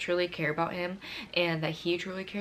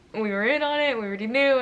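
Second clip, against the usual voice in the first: higher, excited friend's voice; imitated excited reveal; 6 semitones higher, 4 dB louder than usual. Friend revealing he was in on it, excited. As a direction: act out gleefully letting the secret out.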